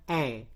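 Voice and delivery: "E" said as "eh"; "E" as in cetak; open E sound. Shown as a demonstration. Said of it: "enak dibaca E".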